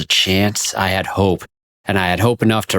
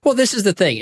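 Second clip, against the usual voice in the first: high, laughing speech; 13 semitones higher than usual. Real, not acted. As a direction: talk through a laugh. Laughing while talking.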